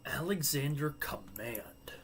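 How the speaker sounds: a slow, whispered try at a Swedish accent. Shown as a demonstration. Streamer trying the Swedish prospect's name in a Swedish accent. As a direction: test a Swedish accent under your breath. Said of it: "I was trying to say command in a Swedish accent".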